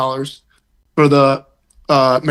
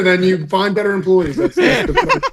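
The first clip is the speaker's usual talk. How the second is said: laughing; 4 semitones higher than usual. Real, not acted. Laughs mid-rant about employees.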